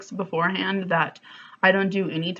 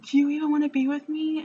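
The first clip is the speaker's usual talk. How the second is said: mock confronting; 8 semitones higher, faster than usual. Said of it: "And I'm like".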